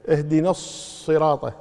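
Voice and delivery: slow اهدنا الصراط, holding the "ss" of الصراط; doubled sad. Shown as a demonstration. Teacher pointing out a shadda, held sad in الصراط. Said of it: "مشددة".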